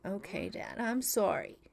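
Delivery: put-on soft, small kid apology; meek apology. Toddler apologizing to his dad after a tantrum, soft and meek. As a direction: say sorry like a chastened toddler. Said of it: "And he's like".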